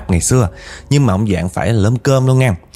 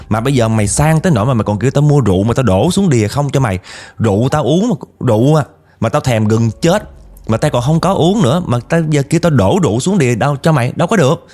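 mild mock scolding, pitch climbing higher; half-acted indignant outburst, rising higher toward the end; retold angry rant; 4 semitones higher than usual. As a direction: huff through the complaint like a fed-up uncle telling off a ghost. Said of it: "bữa đó chú chửi quá trời".

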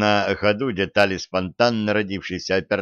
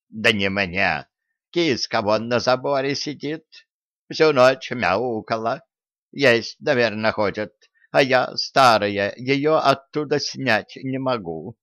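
lightly voiced old granny; a hint of a frail old woman. Old woman character speaks.

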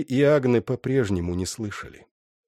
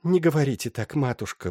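moaning; 6 semitones higher than usual. Acted. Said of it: "простонала Гинтери".

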